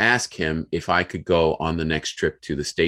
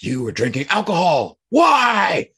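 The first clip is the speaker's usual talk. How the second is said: raised, accusing boss voice; mock yell of the boss; 13 semitones higher, 5 dB louder than usual. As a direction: hit the why high and sharp. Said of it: "starts screaming at me".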